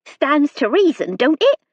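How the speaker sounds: a frightened country maid pleading her case; nervous serving girl. A narrator's reading. Narrator voices nervous servant Hilda.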